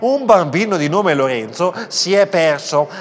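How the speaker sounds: measured public-address call; cashier's microphone announcement. Acted. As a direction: announce a lost child to the shoppers. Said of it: "Cliccò un pulsante e disse".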